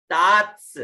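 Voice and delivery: तात्स with long aa and crisp "ts" ending; final "ts" cluster. Shown as a demonstration. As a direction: model तात्स in isolation, releasing the "ts". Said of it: "आधा त और स".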